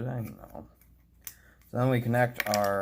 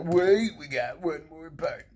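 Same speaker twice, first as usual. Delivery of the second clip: surprised realisation; 6 semitones higher, 5 dB louder, slower than usual. Real, not acted. Sudden realisation, put-on voice.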